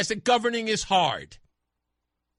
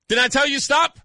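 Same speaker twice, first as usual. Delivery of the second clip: loud, raised I-told-you-so; scolding parent; 6 semitones higher, 6 dB louder than usual. Acted. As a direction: scold a kid who just got hurt. Parent scolding the hurt child.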